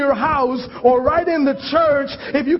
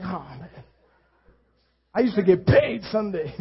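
softer, lower, lightly mock-mournful bodeguero; mock sad shopkeeper; 7 semitones lower, 5 dB quieter than usual. Preacher imitates the shopkeeper missing church money, mock sad. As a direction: pretend to mourn lost Sunday money. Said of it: "He's like".

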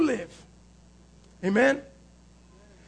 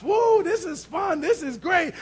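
higher, drawn-out mock delight; mock glee; 3 semitones higher than usual. Preacher mimicking people playing with devil's toys, mock glee. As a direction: imitate someone having a great time.

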